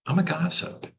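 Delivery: high playful confession; playful gossip voice. Shown as a demonstration. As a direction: say I'm a gossip in a high teasing voice. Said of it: "Bad attitude could be".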